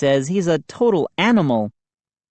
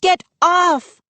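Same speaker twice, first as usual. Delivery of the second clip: high loud shriek; Mindy screams at Moose, loud shriek; 13 semitones higher, 4 dB louder than usual. A narrator's reading. Very high shout. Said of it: "Mindy shrieking continues".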